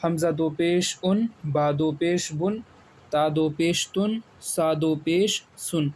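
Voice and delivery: teacher's chanted hijje drill; spelling drill. Shown as a demonstration. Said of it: "ایک بار میں ہجے سے پڑھ لیتا ہوں".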